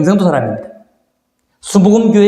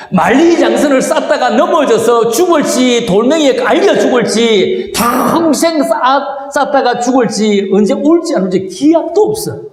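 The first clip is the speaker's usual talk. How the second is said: raised pitch, listing each dreaded fate; dramatized worry, pitched higher; acted anxious waiting; 4 semitones higher than usual. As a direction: pile up the worries like a waiting wife. Voicing waiting wife's mounting dread.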